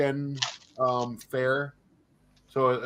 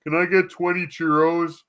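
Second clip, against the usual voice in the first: higher, louder demanding customer; pushy customer voice; 7 semitones higher, 7 dB louder than usual. Retold or imitated. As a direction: bark the order like a pushy customer. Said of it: "some asshole comes in and wants".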